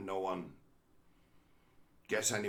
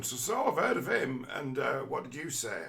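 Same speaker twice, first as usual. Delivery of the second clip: mock curious acquaintance; 2 semitones higher than usual. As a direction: play the eager listener asking for more. Acted small talk exchange.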